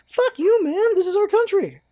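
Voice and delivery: high, indignant comeback; retorting to people telling him to get out, high and indignant; heated retort. Retold or imitated. Retorting to critics of complaints.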